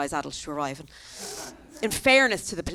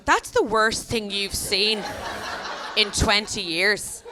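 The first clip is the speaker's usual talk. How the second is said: incredulous; much slower than usual. Retold or imitated. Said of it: "And I was like".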